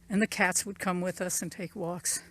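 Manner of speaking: breathless from the uphill walk; out of breath. Real, not acted. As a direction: talk while winded. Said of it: "Ooh, I'm out of breath".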